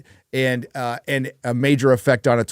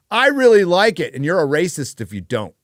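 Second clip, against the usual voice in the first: mock shill gushing; 5 semitones higher, 5 dB louder than usual. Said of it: "They just go".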